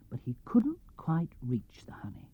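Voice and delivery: softly whispered narration; a breathless teasing whisper. A narrator's reading. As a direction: whisper the near miss.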